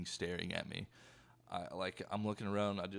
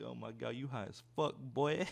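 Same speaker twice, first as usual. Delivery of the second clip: teasing friend; 3 semitones higher than usual. Retold or imitated. Friend teasing him in class.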